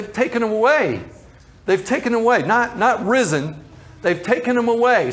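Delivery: a touch of grief in her plea; mild distraught lament. Retold or imitated. Mary at the tomb, distraught over the missing body.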